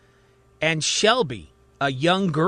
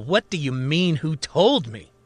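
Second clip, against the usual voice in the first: agitated outburst; 3 semitones higher than usual. Acted. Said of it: "starts to pound on the table".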